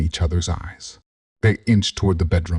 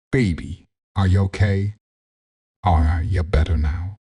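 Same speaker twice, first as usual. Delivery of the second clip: tentative. A narrator's reading. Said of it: "she asked tentatively".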